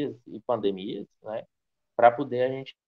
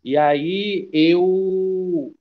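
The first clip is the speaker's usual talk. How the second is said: slow, raised voice, drawn-out words; speaking up; 4 semitones higher, 5 dB louder, much slower than usual. Real, not acted. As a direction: project a little more so listeners can hear. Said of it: "vou falar um pouco mais alto". (falando mais alto, devagar)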